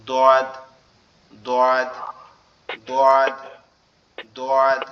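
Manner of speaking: দোয়াদ with a thick, heavy sound from the back of the tongue. Shown as a demonstration. Teacher showing the hardest letter, heavy thick demo. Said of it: "একটু মোটা মোটা হবে, একটু ভারী মতো".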